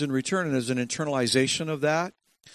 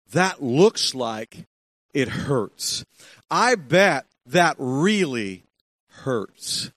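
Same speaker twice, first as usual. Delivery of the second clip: slow, soothing sympathy; tender mom; much slower than usual. Retold or imitated. Mom comforting the boy who fell, slow and tender. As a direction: linger on every word like comforting a hurt child. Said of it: "she would say".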